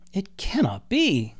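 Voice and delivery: slow, breathless whisper of disbelief; stunned disbelief. A narrator's reading. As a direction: hush it as if the ground shifted. Lucifer stunned by new creatures.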